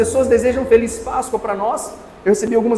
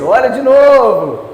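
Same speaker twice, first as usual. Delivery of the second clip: firm retort; 6 dB louder, slower than usual. Retold or imitated. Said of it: "Eu falo assim".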